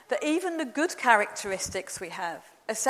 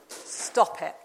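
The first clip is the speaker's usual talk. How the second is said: gentle voice of Jesus; 4 semitones lower than usual. Retold or imitated. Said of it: "then Jesus says to you this".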